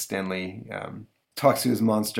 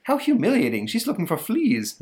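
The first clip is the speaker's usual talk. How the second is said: high, mortified; mortified little dog; offended dog; 10 semitones higher than usual. Retold or imitated. Lhasa Apso mortified at being checked for fleas. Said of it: "Lhasa offended".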